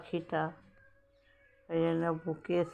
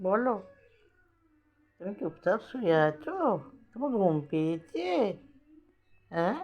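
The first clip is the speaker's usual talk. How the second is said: pet talk. Real, not acted. Talking sweetly to the pet bird.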